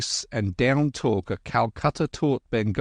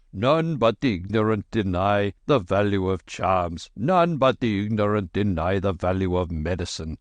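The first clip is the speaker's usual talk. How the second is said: booming voice. Acted. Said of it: "heavy voice boomed through the darkness".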